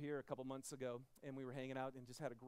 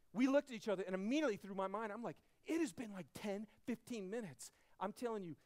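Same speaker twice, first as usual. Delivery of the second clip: retold panic; 4 semitones higher, 7 dB louder than usual. Retelling panic search, rising intensity.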